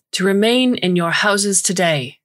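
calm robotic corporate voice; robotic announcement. Acted. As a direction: announce it like an automated alert. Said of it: "a robotic corporate voice announces with a discordant calm".

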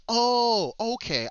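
high, drawn-out mock revelation; retold realization. Player recalling when food was introduced, dawning realization. Retelling his moment of understanding.

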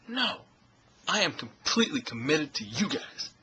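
a lightly voiced Denzel, earnest and emphatic; Denzel Washington impression. Vlogger answering his viewers as Denzel, lightly imitated. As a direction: lean into a mild Denzel delivery. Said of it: "my other Denzel Washington impression".

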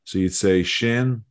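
sin said slowly as shin; slow careful shin for sin. Shown as a demonstration. Teacher modelling sin as shin for a child. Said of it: "So sin is that".

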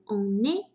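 "on est" run together as one unit; liaison. Shown as a demonstration. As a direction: link "on" into "est" with the n sounded. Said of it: "这边要连读".

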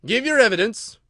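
loud, high royal order; commanding. Acted. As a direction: demand it as king in court. King orders a witness.

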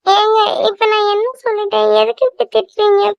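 high, weepy voice rising into tears; wife near tears at her scolding husband, weepy and high; tearful complaint. Acted. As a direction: start crying, hurt by the scolding. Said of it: "அழாத".

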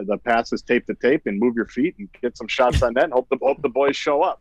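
lightly voiced hockey-player cliché talk; a hint of the stock hockey guy; Matt Kowalski impression. Intern doing his Matt Kowalski impression, lightly voiced. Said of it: "I had a killer Matt Kowalski impression".

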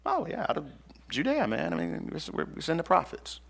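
lightly voiced scribes, casual and shrugging; careless scribes. Preacher mimicking the careless scribes answering Herod, a hint of shrugging. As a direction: toss it off like bored scribes who don't care. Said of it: "that's how they said it".

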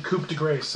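"Coupe de Grace" with Grace said like English "grace"; bad French. Reviewer owning up to his French, "Coupe de Grace" badly mispronounced. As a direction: say "Coupe de Grace" as mangled French, Grace rhyming with face. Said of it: "there's my French for you".

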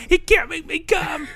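high, slow mocking shout; mock girlfriend. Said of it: "Can you blame her?".

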